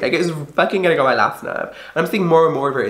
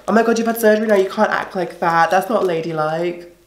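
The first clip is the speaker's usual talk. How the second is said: mimicked scolding, pitched up at the start; mocking disapproval; 4 semitones higher than usual. Mimicking people who criticise her after surgery, mock disapproving. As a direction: imitate a disapproving busybody.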